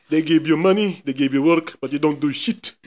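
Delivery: lightly mocked African accent. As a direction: imitate an African accent for laughs. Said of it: "Ganun sila magsalita".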